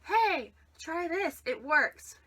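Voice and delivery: hammed-up pitchman hype; infomercial voice. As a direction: sell it like a cheesy ad. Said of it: "sounds like some crazy infomercial".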